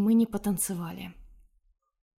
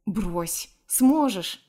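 encouraging; much slower than usual. A narrator's reading. Dima reassuring her she can spin it, encouraging. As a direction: cheer on someone who doubts herself. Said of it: "приободрил меня парень".

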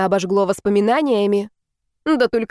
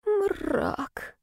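whispered; 11 semitones higher, 9 dB quieter than usual. A narrator's reading. Grim whispered aside.

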